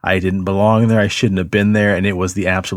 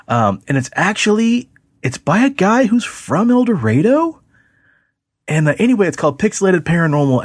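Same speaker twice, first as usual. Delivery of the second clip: eager pitch; 6 semitones higher than usual. Retold or imitated. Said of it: "he's like".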